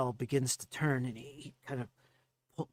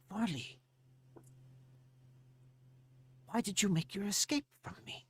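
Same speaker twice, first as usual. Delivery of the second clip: questioning gnome; 4 dB quieter than usual. Acted.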